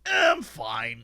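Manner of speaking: low, quiet brush-off of the pain; low downplaying murmur; dismissive shrug. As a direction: mumble it like it's nothing. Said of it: "hurt my leg and be like".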